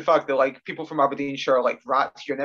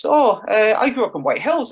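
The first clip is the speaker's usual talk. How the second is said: higher, lifted voice with a light English twang; soft English twang; 7 semitones higher, 5 dB louder than usual. Retold or imitated. Caller revealing she's from nearby, soft English twang. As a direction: imitate the caller's faint English twang, pitched up. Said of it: "like, an English twang".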